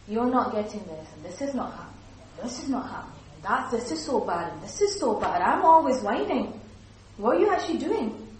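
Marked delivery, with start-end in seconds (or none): 0.1-6.6 whining voice. Shown as a demonstration. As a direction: complain on and on, rising to a wail. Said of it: "A whiner, constantly whining and whinging".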